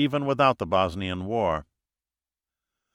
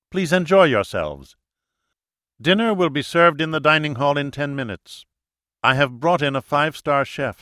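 brisk, authoritative hostess; commanding leader; 4 semitones higher than usual. Acted. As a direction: dismiss them politely but firmly. Leader dismisses guests.

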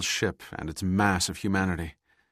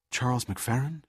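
exclaiming; 5 semitones higher than usual. Acted. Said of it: "she exclaimed".

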